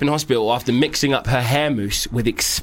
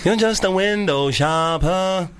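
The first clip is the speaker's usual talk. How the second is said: put-on Nigerian accent; 5 semitones higher, much slower than usual. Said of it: "in a Nigerian accent".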